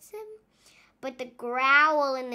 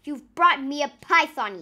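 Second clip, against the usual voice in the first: louder, thrilled exclamation; delighted cry; 9 dB louder than usual. Acted. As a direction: shout it with joy. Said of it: "he cried".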